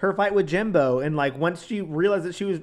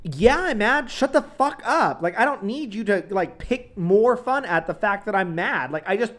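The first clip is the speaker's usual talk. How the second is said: high-pitched, fed-up outburst; acted angry rant; 5 semitones higher than usual. Snapping at people who pick fun, angry. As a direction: play someone pushed past their patience.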